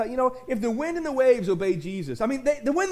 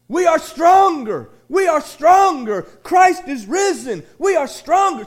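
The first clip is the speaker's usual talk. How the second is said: slow, loud, higher preaching shout; slow fervent shout, louder and higher; shouted rallying cry; 5 semitones higher, 7 dB louder, slower than usual. Real, not acted. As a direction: proclaim it to the back row. Pastor repeats rallying cry.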